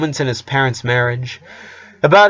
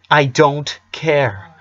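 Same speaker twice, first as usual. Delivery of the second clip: I don't care drawn out slowly and earnestly; a boy insisting to his dad that he means it; slow, sincere reassurance; 3 semitones higher, much slower than usual. Acted. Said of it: "Dad, I mean it".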